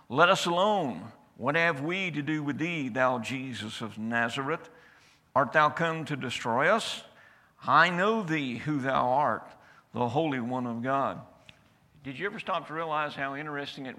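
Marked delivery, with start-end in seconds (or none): 0.1-11.2 raised, crying out as the possessed man; loud cry. Acted. Possessed man crying out to Jesus, loud and raised. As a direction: cry out the demon's words loud. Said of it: "cried out with a loud voice".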